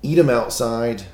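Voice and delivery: giggling while demonstrating the messy move; laughing advice. Real, not acted.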